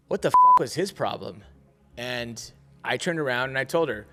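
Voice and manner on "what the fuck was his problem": louder, emphatic retelling; mock full volume. Worker to coworker about customer, mock loud complaint. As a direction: punch it out loud as if meant to be overheard. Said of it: "in full volume".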